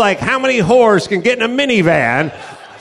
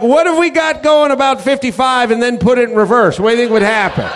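reckless joyrider; 5 semitones higher, faster than usual. Retold or imitated. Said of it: "you're like".

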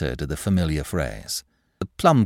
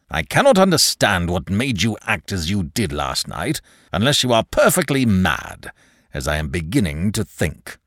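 a hint of an irate boss; exasperated manager. Manager questions clerk's sanity, exasperated. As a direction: scold with mounting impatience, settling at the end.

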